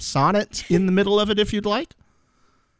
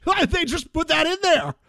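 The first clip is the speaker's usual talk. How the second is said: incredulous wow; 11 semitones higher than usual. Retold or imitated. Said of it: "And I was like".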